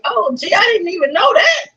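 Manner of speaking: high, playful fake surprise; mock innocent. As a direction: pretend you had no idea. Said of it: "I was like".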